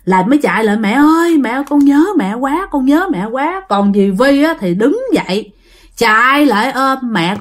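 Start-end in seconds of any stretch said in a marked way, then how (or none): 0.8-3.6 mild retold weeping plea; retold crying. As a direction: mimic a possessed girl sobbing for her mother. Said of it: "nhập vô khóc quá trời luôn".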